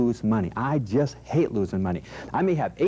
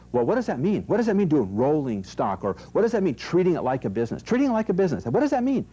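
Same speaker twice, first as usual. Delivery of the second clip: lightly mimicked interviewer, questions rising higher; puzzled interviewer; 4 semitones higher than usual. Interviewer asking the guest what it means, lightly mimicked bafflement. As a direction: imitate a baffled questioner, higher towards the end. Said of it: "the person doing the interview with me will say".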